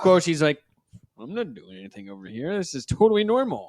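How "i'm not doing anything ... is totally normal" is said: mock nonchalance, overdone on the last words; feigned innocence. Bootlegger covering for his hidden camera, mock innocent.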